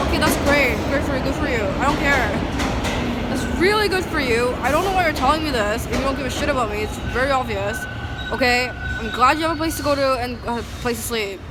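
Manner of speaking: fed-up mocking comeback to people bragging; sarcastic angry retort. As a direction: throw the fake congratulations back at them. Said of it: "And I'm like".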